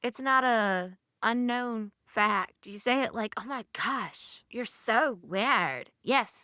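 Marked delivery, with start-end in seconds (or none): 3.4-5.9 imitating a Valley Girl accent; teasing Valley Girl accent impression. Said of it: "I don't have a Valley Girl accent".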